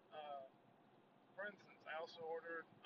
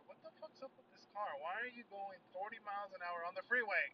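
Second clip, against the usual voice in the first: road rage; 3 semitones higher, 10 dB louder than usual. Real, not acted. Yelling at slow car while driving.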